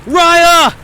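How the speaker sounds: high, loud anguished shout; anguished cry. Acted. Dick calling out as Raya dies, anguished shout. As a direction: cry her name as she slips away.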